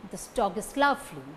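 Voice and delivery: "dog" and "lovely" stressed, quick weak "is". Shown as a demonstration. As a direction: hit "dog" and "lovely", hurry the rest. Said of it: "that carry stress are dog and lovely".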